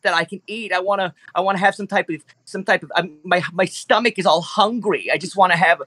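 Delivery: high, nasal kvetching dinosaur voice; high whiny creature voice; nasally Jewish T-Rex. Acted. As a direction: play a fussy, complaining T-Rex, pitched well up. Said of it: "very Jewish and nasally in his voice".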